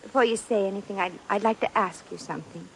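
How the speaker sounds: put-on American girl putting on a refined British accent; fake British accent. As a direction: keep the put-on English accent polite and careful. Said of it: "your accent".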